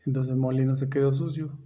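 slow, low, soft narration of a curious fact; lightly put-on storyteller, measured and unhurried; storytelling. Host tells listeners how potosina enchiladas began, storytelling.

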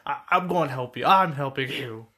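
lightly voiced pushy encouragement; overbearing teacher. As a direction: insist on helping, a touch overbearing. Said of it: "overbearing, and she's like".

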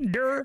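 "Dermot" split as der-MOT, high; mocking stress on MOT. Mocking a friend's slip, "Dermot" as der-MOT. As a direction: mimic the blunder, hitting the last syllable of "Dermot". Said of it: "stress of the mot".

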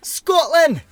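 loud, high, hammed-up Scottish yell; a shouted, badly faked Scottish accent; terrible Scottish accent. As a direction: bellow it in a bad Scottish accent. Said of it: "it's a terrible impression".

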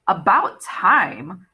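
slow, drawn-out scolding tease; chiding. Acted. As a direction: chide him like a cat. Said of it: "she chided".

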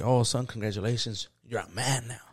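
low, soft imitation of mom; understated, hushed delivery; mom's retold congratulations. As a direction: congratulate quietly.

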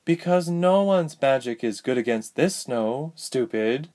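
put-on high, exasperated girl's voice; impatient older sister. A narrator's reading. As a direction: snub a little brother impatiently. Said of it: "rolling her eyes impatiently".

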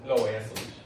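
a hint of gleeful revenge; mock scheming. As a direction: gloat about exposing them. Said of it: "Eso fue lo que dije".

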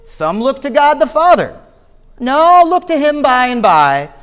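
a touch of broad Essex in a rising exhortation; broad Essex accent. Acted. Rustic preacher exhorting his few listeners, light broad Essex accent. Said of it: "said he in broad Essex accent".

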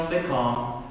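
low, soft self-talk; forced calm. Retold or imitated. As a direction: talk yourself down quietly. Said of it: "I'm trying to".

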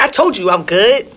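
lightly voiced clueless daughter; goofy clueless sitcom voice. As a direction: play it innocent and clueless. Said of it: "She went real clueless on him".

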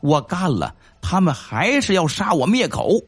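lightly voiced frightened prisoner near tears; tearful. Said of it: "赵永胜一脸泪相".

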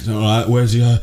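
lightly imitated northern English accent. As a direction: slip into a mock northern accent. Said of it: "I don't know why it's northern".

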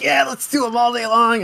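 high, loud gung-ho cheer; over-excited. Retold or imitated. Host imitating their own eagerness for dungeons, over-excited. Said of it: "a little more excited than anybody".

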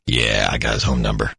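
mock producer. Producer quoted in story.

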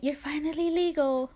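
high mocking quote; mimicking everybody. Teen retells classmates' teasing, mimicking everybody. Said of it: "everybody were like".

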